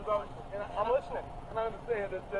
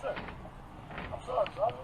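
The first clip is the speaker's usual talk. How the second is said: frightened whisper; much slower than usual. Real, not acted. Frightened man pleading with police.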